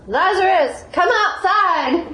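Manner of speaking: high, loud summons with a laugh in it; calling a dead man out of the tomb, loudly. A narrator's reading. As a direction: call him out of the tomb at full voice. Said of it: "he cried out with a loud voice".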